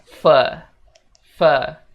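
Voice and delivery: "for" short and clipped, as fo. Shown as a demonstration. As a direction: keep it brief and loud. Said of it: "bilang singkat aja".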